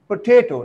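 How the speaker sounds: "potato" said po-TA-to; stress on second syllable. Shown as a demonstration. Teacher modelling correct potato, stress on second syllable. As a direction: punch the middle syllable of "potato". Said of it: "the stress falls on the second".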